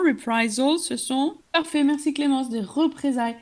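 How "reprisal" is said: Reprisal said clearly as re-PRI-sal, stress on PRI; teacher models Reprisal for the class, stressing PRI; careful pronunciation. Shown as a demonstration. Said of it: "Attention à la prononciation".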